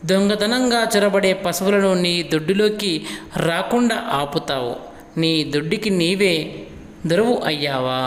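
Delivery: put-on measured recitation addressed to a child; lightly dramatized lesson reading; expressive summary reading. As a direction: read it out with rising, pitying questions. Reads the poem's summary to the boy.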